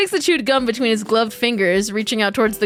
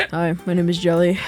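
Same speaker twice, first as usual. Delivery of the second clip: lower, gloomy, serious take; deadpan emo intro; 5 semitones lower than usual. Acted. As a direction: play the brooding new girl. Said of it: "Okay, sorry".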